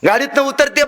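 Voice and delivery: ordinary delivery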